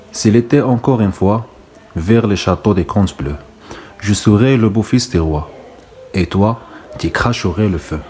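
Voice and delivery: slow reading of French verse; poem recitation. Acted. Teacher reads the next stanza to pupils, slow recitation. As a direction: take each line of the poem slowly and separately.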